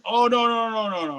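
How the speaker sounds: a touch of a panicked buyer waving it off; imitating flustered buyer. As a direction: buyer refusing the dedication, lightly imitated. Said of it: "and he goes".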